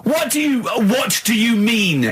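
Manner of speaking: high, slow disbelieving cry; can't believe what he's hearing; exasperated, drawn-out what do you mean; incredulous outcry. Real, not acted. Exasperated at Carl's idea.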